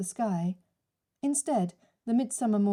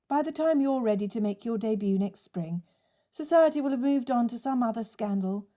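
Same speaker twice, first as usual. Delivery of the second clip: icy tone; 2 semitones higher than usual. Acted. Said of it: "keep the ice from her tone".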